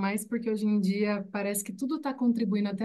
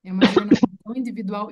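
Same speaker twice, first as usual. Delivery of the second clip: laughing; 9 dB louder, faster than usual. Real, not acted. Laughs mid-sentence, loud and fast.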